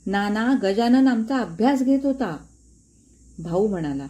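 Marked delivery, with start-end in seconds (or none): 0.1-2.4 mild cry. Acted. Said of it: "मी मध्येच ओरडलो".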